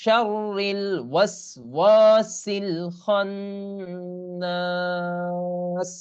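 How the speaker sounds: slow, drawn-out Quranic chant with long vowels; Quran recitation. Shown as a demonstration. Teacher models the verse for students, slow tajweed chant. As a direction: chant it slowly like tilawat. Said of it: "teacher recites Surah Nas".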